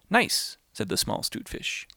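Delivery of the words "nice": high drawn-out "Nice"; sly "Nice". Acted. The little fish teases the whale, high and sly.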